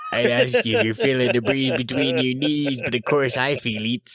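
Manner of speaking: talking with a laugh in the voice; joking through laughter. Pretend. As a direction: keep the bit going while laughing. Riffing on joke amid laughter.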